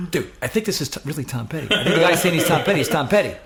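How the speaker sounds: high, rising to loud; acted frantic roommate, building in volume; urgent insisting. Roommate insists caller is really famous.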